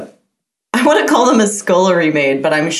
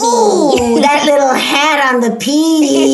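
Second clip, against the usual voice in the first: weird sex voice; 5 semitones higher, 4 dB louder, slower than usual. Acted. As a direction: purr it out like a randy granny. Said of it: "your weird sex voice".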